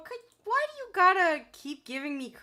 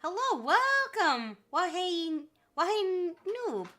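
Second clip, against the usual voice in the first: excited greeting; 6 semitones higher, 5 dB louder than usual. Real, not acted. Greeting a viewer joining the stream.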